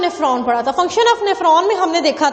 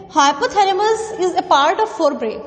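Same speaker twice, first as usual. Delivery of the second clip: slow dictation; much slower than usual. Shown as a demonstration. Teacher dictating definition.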